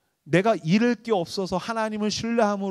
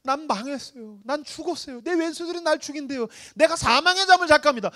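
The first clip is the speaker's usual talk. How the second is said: lament; 5 semitones higher than usual. Acted. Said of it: "A 파트는 한탄이에요".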